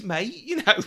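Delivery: a bad put-on Cockney accent, laughing through it; hammy mock Cockney; terrible Cockney accent. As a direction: toss off a jokey Cockney mate. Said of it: "She does a terrible Cockney accent".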